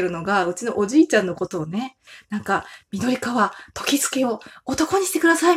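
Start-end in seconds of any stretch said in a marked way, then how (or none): 2.9-5.6 campaign announcer voice. Retold or imitated. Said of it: "みたいな感じで言ってる".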